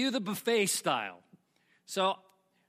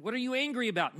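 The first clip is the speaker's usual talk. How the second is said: higher-pitched baffled question; puzzled retort; 5 semitones higher, faster than usual. Acted. Narrator to hungry cousin who shoved, puzzled. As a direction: act out confused pushback.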